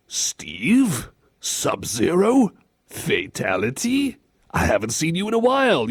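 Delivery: slow, questioning names with rising ends; mock stunned reunion; disbelieving recognition. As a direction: call to someone you thought was dead. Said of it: "like it's the name of someone he's looking at and he thought was dead".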